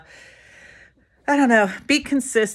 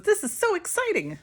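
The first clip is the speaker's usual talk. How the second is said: excited cashier; 13 semitones higher than usual. Retold or imitated. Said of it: "And she got excited".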